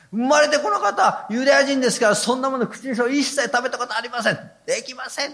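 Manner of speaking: a mildly acted Peter pleading with God; Peter's protest. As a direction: insist you have never eaten anything unclean. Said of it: "だからなんて言ったんですか？".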